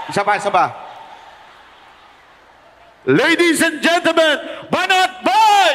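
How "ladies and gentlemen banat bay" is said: emcee introduction. Pretend. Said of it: "Kunwari, isang sikat na artista yung lalabas".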